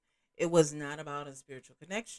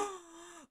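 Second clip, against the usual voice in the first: sharp, theatrical intake of breath; mock gasp; 10 semitones higher, 15 dB quieter than usual. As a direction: gasp as if struck by a revelation.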